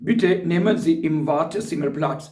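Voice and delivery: very slow, every German word spelled out for learners; slow dictation. Shown as a demonstration. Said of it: "ये जुमला अक्सर बोलते हैं".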